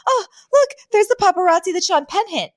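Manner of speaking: high-pitched, thrilled star-spotting; Fran. Retold or imitated. Pointing out paparazzi on the red carpet, imitated high excitement. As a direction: squeal it high, imitating someone over the moon. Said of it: "over the moon".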